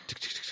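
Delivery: quick ticking engine noise; imitated diesel engine. Storyteller mimics truck trying to take off, engine ticking. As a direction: imitate a truck struggling to pull away. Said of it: "It's, like, going".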